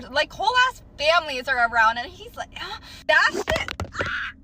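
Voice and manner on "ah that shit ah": higher, slow, drawn-out pleased sigh; mock satisfied sigh. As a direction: ham up his gross contentment. Mocks his satisfied sigh after kiss.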